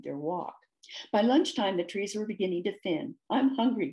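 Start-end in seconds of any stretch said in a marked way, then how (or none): 3.3-3.9 growled. Acted. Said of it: "growled Ding".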